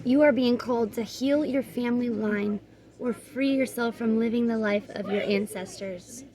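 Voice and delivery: measured, even oracle-card reading; guidebook read-aloud. Real, not acted. Reader giving viewers the card's message, measured read-aloud.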